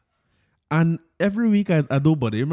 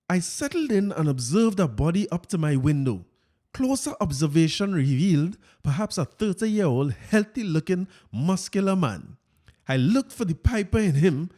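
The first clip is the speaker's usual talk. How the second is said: Fitz voice; 3 semitones higher than usual. Retold or imitated. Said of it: "let me get my Fitz voice here".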